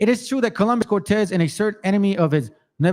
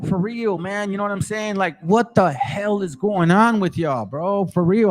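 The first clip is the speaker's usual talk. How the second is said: angry rant; 3 semitones higher than usual. Real, not acted. Ranting at the book's claims.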